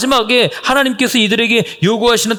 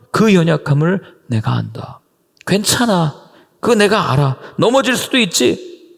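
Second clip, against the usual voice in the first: gentle comfort. Pretend. God voiced comforting the weak.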